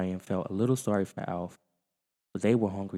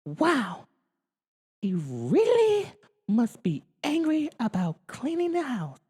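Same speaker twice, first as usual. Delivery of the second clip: put-on very high girl's voice; Kate to herself; slower than usual. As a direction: muse to yourself. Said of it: "Kate said to herself".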